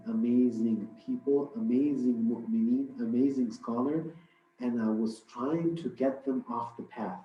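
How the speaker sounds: a touch of a weary tempter; tired shaitan. Acted. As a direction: drag the words like a devil exhausted from hauling chains. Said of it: "the shaitan is really tired".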